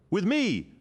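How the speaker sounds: high, loud shout; rally them to you. A narrator's reading. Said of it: "Loken shouted".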